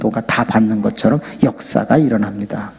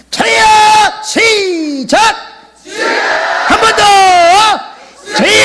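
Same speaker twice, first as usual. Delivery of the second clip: demonstrated prayer shout; 6 dB louder than usual. Shown as a demonstration. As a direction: lead the crowd in a full-voiced shout. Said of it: "두 번만 한번 해보겠습니다".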